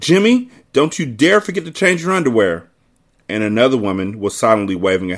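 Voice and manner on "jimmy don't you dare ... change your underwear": higher, a hint of a scolding mother; lightly voiced mother calling to her son; mother on the dock, mock shout; mild mock shout. A narrator's reading. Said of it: "One woman shouted".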